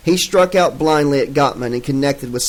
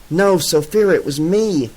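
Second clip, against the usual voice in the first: urgent; 4 semitones higher than usual. Acted. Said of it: "Lynn said urgently".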